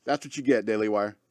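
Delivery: a soft muttered echo of the jab; quiet repeat. Real, not acted. Taunting Daily Wire, repeated.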